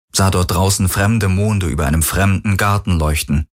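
ordinary delivery, nothing marked

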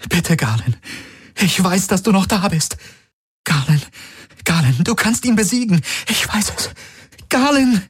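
high tearful begging, ending in a cry; pleading. A narrator's reading. Kirai begging possessed Galen, tearful high plea. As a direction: beg him to come back. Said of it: "Sie sah ihn flehend an".

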